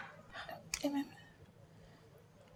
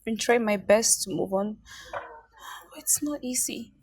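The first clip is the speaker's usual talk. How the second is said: tearful whisper; 4 semitones lower than usual. Acted. Mother admitting to friend it's hard, whispering tearfully. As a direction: barely get the words out.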